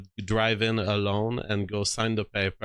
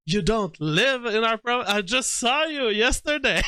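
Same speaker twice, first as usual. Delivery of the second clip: high mock voice; 11 semitones higher than usual. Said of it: "And she was like".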